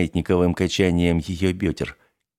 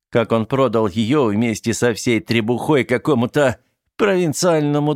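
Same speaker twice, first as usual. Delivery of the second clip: gloating; 4 semitones higher than usual. Acted. Teddy gloats about the fraud.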